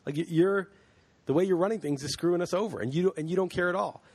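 angry voters shouting at the elites, hammed up; mock angry outburst. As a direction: voice the fed-up voters telling the elite off. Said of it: "they're all like".

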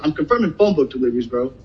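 retold annoyed reply, mildly snippy; a touch of fed-up attitude on bro. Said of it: "and I got an attitude with him".

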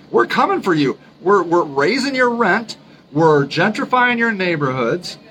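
play-threaten the poor as a gentrifier; mock middle-class threat. Voices middle class menacing poor people.

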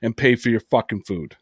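retelling a threat to the rude customer; fast retold threat. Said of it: "I said".

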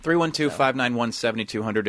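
steady radio phone-number read; announcer read. Acted.

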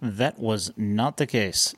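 slow, weighty documentary narrator. Pretend. Co-host echoing his partner's line as a slow, grave narrator. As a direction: intone it like a dramatic film narrator. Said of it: "narrator voice".

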